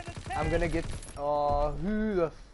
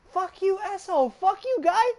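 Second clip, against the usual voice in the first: high-pitched imitation, thick Chinese accent; mock Chinese accent; 13 semitones higher than usual. Streamer retelling a couple's argument, mock Chinese accent. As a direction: mimic her insults in a thick Chinese accent. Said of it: "in such a thick Chinese accent".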